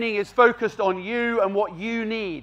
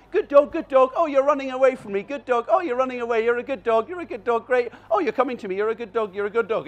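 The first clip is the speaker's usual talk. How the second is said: mixed-up praise; 2 semitones higher than usual. Shown as a demonstration. Trainer mocks confusing praise to a running dog, mildly sweet. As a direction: ramble sweetly whatever the dog does. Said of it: "You can't just be all".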